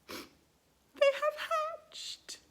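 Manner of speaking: very slow, high breathless whisper; stunned hushed whisper; awed whisper. Acted. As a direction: whisper it in shock. Elephant stunned by hatching.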